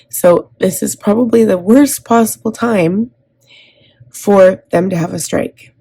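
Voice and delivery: pushing through real upset, pitch climbing; really upset. Real, not acted. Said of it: "I'm really upset right now".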